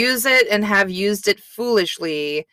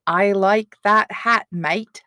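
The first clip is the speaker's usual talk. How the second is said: Australian accent attempt; slower than usual. Shown as a demonstration. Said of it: "the key to an Australian accent is saying".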